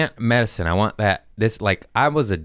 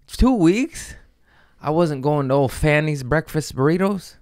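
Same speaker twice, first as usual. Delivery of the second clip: mock lament; 7 semitones higher than usual. Mock complaint about no bacon.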